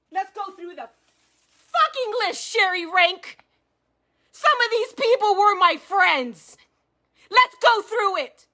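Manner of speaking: high, heated angry push; fired up. Real, not acted. Daring Sherry Rank to go through the list, angry. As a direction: spit out the challenge. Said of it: "I'm fired up".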